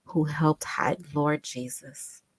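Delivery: slow, hushed and breaking off into a whisper; stunned, slow half-whisper; shaken. Real, not acted. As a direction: read it slowly, overcome by the account. Shaken by reading survivor's account.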